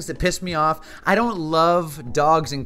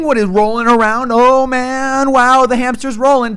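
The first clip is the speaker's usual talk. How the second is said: mock hamster fan; 7 semitones higher, 8 dB louder than usual. Mocking hamster owners' delight.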